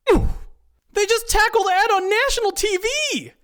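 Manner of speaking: very high, loud squeal; excited high-pitched outcry; shocked exclaiming. A narrator's reading. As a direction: shriek it in disbelief. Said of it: "exclaims Steve".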